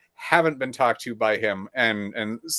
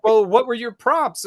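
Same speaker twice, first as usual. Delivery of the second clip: higher, slower mock clerk voice; 10 semitones higher, 5 dB louder than usual. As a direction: parody her pushy question. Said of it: "She's like".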